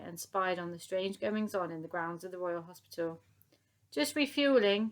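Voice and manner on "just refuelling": calling out. A narrator's reading. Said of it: "called out Elsie".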